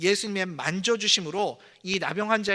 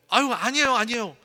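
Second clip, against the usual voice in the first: mock modest refusal; 2 semitones higher than usual. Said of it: "막 이러면서".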